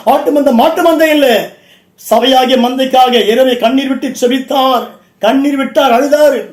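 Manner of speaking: full-force Tamil sermon delivery; impassioned preacher rousing a congregation; fervent preaching. Real, not acted. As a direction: preach it out in ringing, driving phrases.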